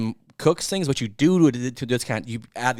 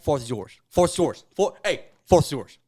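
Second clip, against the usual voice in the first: terrible Texas drawl; 2 semitones higher, 5 dB louder than usual. Retold or imitated. Owner closing a trade, bellowing in a bad Texas drawl. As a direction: bellow a cartoon Texas drawl at a rival team. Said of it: "That was a terrible accent".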